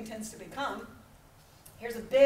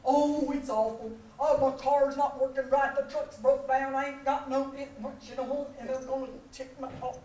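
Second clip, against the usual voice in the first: put-on whiny Southern good old boy; Southern complaining brother. Brother complaining on the phone in an Alabama accent. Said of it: "he talks like this".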